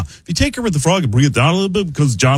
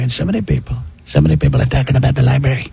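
quiet Trump impression; faster than usual. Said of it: "I do quiet Trump".

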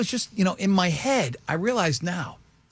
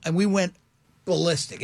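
ordinary talk, nothing marked

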